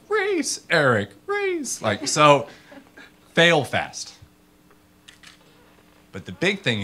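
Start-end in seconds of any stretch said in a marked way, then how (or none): 0.1-1.8 audience call back. Retold or imitated. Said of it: "you guys are like".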